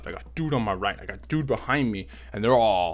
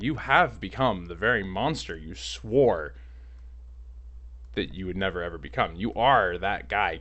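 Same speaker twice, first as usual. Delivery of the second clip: dramatic accusation. Retold or imitated. Mock-grave speech shaming the officer.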